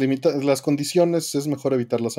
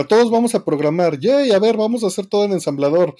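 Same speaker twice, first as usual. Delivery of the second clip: pushy drinking buddy; 5 semitones higher than usual. Retold or imitated. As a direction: hype the group into it. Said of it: "es como si dijera".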